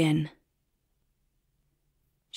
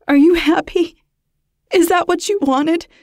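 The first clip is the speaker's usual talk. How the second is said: higher, louder, accusing; angry frightened outburst; 10 semitones higher, 6 dB louder than usual. Acted. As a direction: hurl it at him in fear and anger. Babysitter lashes out at caller.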